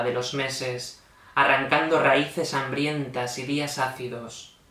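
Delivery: measured, solemn poetry reading; falling cadence at each verse end; poem recitation. Acted. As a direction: recite line by line, pausing after each phrase.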